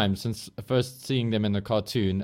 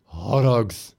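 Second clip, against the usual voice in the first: put-on Horrocks with a thick South African accent; S2 asked to say it in South African accent; 3 dB louder than usual. South African accent. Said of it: "say it in your South African accent".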